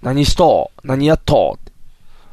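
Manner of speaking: lightly demonstrated Banshu dialect; 播州弁. Shown as a demonstration. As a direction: try out Banshu question endings. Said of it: "播州弁". (軽く播州弁の語尾で)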